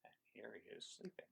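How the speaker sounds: soft whisper so he stays asleep; whisper, don't wake the sleeper. Acted. Child asleep in the picture.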